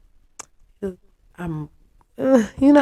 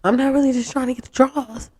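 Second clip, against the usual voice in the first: laughing; 5 semitones higher, 6 dB louder than usual. Retold or imitated. Boyfriend voiced, laughing.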